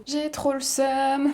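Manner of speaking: slow, high-pitched complaint; drawn-out, high lament; dismayed whine. Real, not acted. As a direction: whine it out, drawing the words long. Upset about the stained dress.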